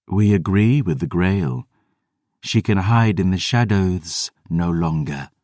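cool, even, otherworldly voice; measured and aloof, like an undead sister; vampire sister siding with the girl, cool and even; cold vampire sister. Acted. Selene speaks.

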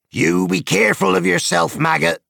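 high, loud farm wife calling after him from the door. A narrator's reading. Wife calling from the open door to her husband, high and loud. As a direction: call him back from the doorway, up high and loud. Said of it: "she called".

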